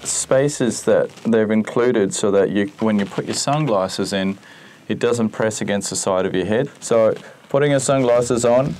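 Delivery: muffled behind chin bar; talking inside full helmet. Real, not acted. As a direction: voice enclosed by helmet. Seen 0: Full-face helmet on, visor up, chin bar covers mouth throughout.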